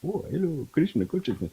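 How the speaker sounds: high, lightly sing-song guru greeting; mock spiritual greeting. Joking about how grace did not arrive, light mock guru. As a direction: tease the expected holy messenger. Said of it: "It didn't come as".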